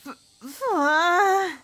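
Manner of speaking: put-on girl squealing as she chokes down pumpkin; strangled high squeal. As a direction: stammer then a loud high squeal.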